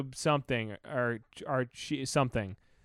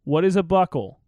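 louder, baffled reading; loud confused question; 3 semitones higher, 9 dB louder than usual. Real, not acted. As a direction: call it out, puzzled. Reads confusing chat question aloud.

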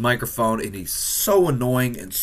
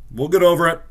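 lightly mock-upbeat, pitched higher; mock-cheery reassurance; 5 semitones higher, 3 dB louder, faster than usual. Consoling fans after the loss, mock-upbeat. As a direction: brush it off with a forced bright lift.

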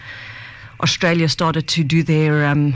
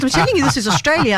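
insistent dad; 7 semitones higher, faster than usual. Retold or imitated. Quoting her insistent dad.

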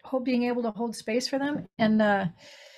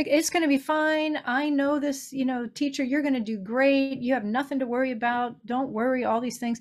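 higher, bright fixing-it comfort; mock reassuring mom; 4 semitones higher than usual. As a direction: brush the worry away, a bit too eager. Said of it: "Comfort her".

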